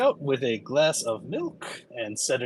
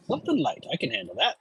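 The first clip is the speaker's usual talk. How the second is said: bartender voice; faster than usual. Acted. GM voices Leda again.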